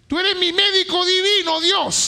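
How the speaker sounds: preacher's loud confession; proclaimed aloud. Shown as a demonstration. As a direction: proclaim it boldly. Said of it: "tú tienes que decir así, hermano".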